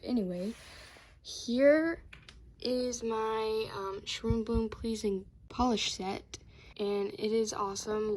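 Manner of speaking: winded, catching breath. Real, not acted. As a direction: talk while still puffing. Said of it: "I'm sorry I'm out of breath".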